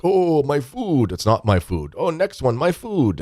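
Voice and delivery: high, drawn-out zombie cries, dipping midway; mock food-hungry zombies. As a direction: imitate drunks reaching like hungry zombies. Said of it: "reach for the food like zombies".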